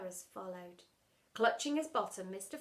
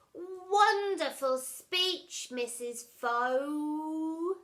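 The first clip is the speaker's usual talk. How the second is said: mock praise; 6 semitones higher, 7 dB louder, much slower than usual. Mungo mock-praising teacher.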